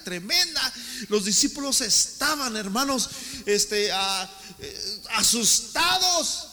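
rising, loud preacher's build; fiery sermon delivery; preaching. Acted. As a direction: preach it with mounting force. Preaching at force.

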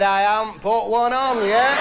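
husband admitting nothing's on yet; loud punchline. Acted. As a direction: punch it out through a laugh.

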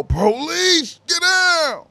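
high, loud mock police command; authoritative cop yell. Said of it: "white man voice with authority yell".

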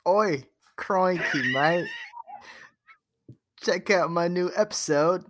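rough attempt at an Australian accent.

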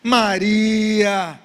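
"Maria" with a long-held vowel, falling at the end; special, peculiar way. Acted. Jesus calls Mary in his own special way, "Maria" long and drawn-out. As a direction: stretch "Maria" out tenderly, like a personal call. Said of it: "de uma forma especial, peculiar, falasse com ela assim".

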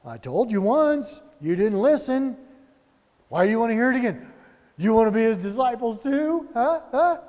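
teasing, mock-indignant needling; taunting jab. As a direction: poke fun at the questioners. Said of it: "kinda a little bit of a jab".

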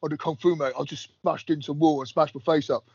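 a hint of a bragging lad; imitating a bloke. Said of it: "sat down with that freaking".

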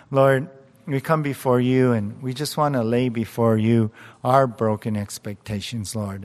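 earnest, steady prayer voice; closing prayer. Acted. Pastor praying over the congregation, earnest and steady. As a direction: pray for the congregation with conviction.

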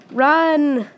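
high, loud panicked cry; run shout. Acted. Tiny mouse facing a cat's nose, shouting high and loud. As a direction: yell it as you bolt away.

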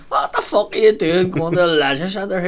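mock him for going to the gym; incredulous shout. Drinker jeering at the lad with the bag: loud incredulous jeer. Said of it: "And he went".

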